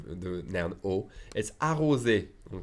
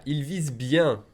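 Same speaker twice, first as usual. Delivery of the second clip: ordinary delivery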